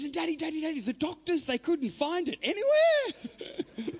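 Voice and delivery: put-on high child voice, laughing and crying at the end; a small girl's innocent worry, with the teller laughing through tears; little daughter's voice, breaking. Daughter tells dad the doctors lost his arm, high child voice cracking into laugh-cry. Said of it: "And she goes".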